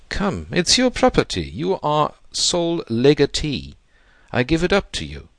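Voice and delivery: impatient urging. A narrator's reading. Thrusting will on him, impatient.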